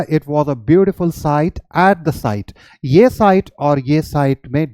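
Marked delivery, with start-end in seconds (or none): 0.0-2.5 slow, careful demo sentence; teacher demonstrating a sentence; slow example sentence. Shown as a demonstration. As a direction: read the example slowly. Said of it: "तो आपने क्या बोला?".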